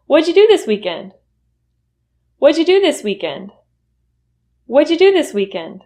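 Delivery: What'd you said as whaja, pitch lifted; reduced question. Shown as a demonstration. Teacher asking about the weekend, reduced. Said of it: "Say that with me".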